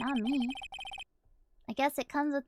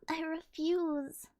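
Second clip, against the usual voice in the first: 1 SpongeBob voice; much slower than usual. Acted. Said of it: "The SpongeBob voice".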